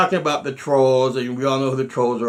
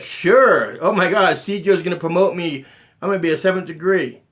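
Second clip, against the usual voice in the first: mock excitement; 5 semitones higher, 5 dB louder than usual. Imagined eager acceptance of promotion.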